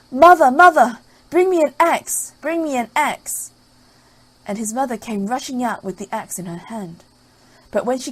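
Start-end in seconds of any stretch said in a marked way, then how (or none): 0.1-3.5 high, loud urgent cry; Jack calling out. Acted. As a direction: shout for help in panic. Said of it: "he called out".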